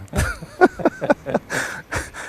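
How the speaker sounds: real high-pitched, breathy laugh. Real, not acted. Pastor recalls refusing to preach, high breathy laugh. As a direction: break into soft, high, wheezy laughter.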